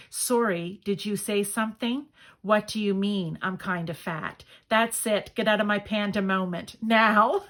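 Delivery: lightly voiced panda, mildly indignant at being interrupted; a hint of a grumpy panda shooing someone off; annoyed panda. Panda card telling off whoever called it fat, mild annoyance. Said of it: "I probably didn't read that very well".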